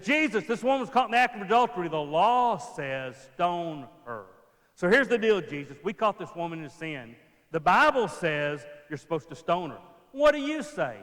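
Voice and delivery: loud, high, demanding challenge; accusing elders. Pretend. Elders confronting Jesus with a demand, loud and high. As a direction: push Jesus into a trap. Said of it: "They said".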